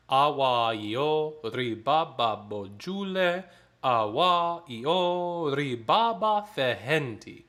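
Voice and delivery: text spoken very slowly and evenly. Shown as a demonstration. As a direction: read the words slowly first. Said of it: "here's the text first".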